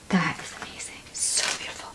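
soft awed whisper. Real, not acted. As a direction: breathe it out in wonder. Admiring the lace.

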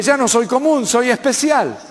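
mildly elated, telling himself he is special; delighted self-talk. Retold or imitated. Preacher recalls his own happy realization, lightly excited. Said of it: "Me dije".

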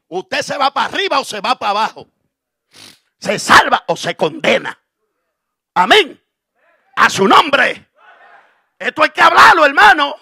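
loud, high exhortation rising to a shout; fiery pulpit shouting; full-force preaching. Real, not acted. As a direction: preach it hard to the congregation.

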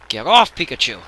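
loud laughing yell; laughing shout. Real, not acted.

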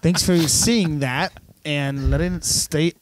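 drawn-out, high sarcastic yelling; sarcastic mock shout. Son thanking dad for the dead battery, sarcastic shouting.

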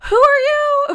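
loud high demand. Pretend. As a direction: demand it loudly. Repeated challenge, first take.

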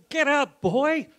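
loud, high mock shout of get up; the speaker yelling. The speaker slapping a believer awake, loud mock shout. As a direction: bark it like a rough coach. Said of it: "Smack, smack, smack like this".

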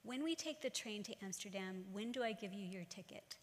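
calm, kindly father asking; gentle question. Retold or imitated. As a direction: ask it gently, like a caring father. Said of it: "he asked gently".

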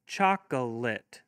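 Chocolate said slowly, each part clear; slow and careful. Shown as a demonstration. Teacher saying Chocolate slowly for kids to hear. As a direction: draw out Chocolate gently. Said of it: "have your kids clap".

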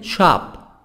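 "Shop" with open American a, ʃɑp; American vowel in "Shop". Shown as a demonstration.

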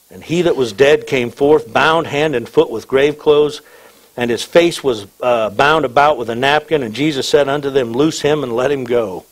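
steady, declaimed verse; scripture reading. Acted. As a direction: read the outcome aloud, formally. Reads scripture to congregation.

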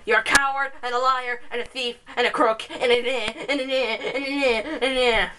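lightly put-on, bad American accent; mock an accuser in a poor American accent, trailing into nonsense; hammed-up attempt at an American accent; rubbish American accent. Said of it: "That's my rubbish American accent".

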